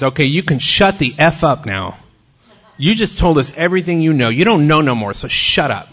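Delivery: loud, gruff shut-the-F-up rebuke; blunt loud scolding. Retold or imitated. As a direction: put the newcomer in place, loudly. Grady scolds the newcomer bluntly.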